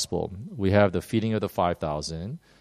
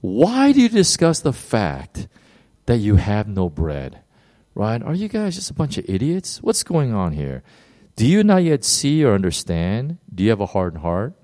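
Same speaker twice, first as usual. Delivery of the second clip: frustrated rebuke. Retold or imitated. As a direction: scold them like a fed-up teacher. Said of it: "you could hear the frustration in Jesus' voice".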